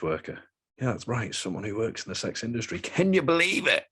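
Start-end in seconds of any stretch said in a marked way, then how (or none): 2.8-3.8 much higher, playful disbelief; hammed-up can you believe it; mock amazement. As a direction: sell the listener a fake gasp of wonder. Mock-amazed aside to listeners.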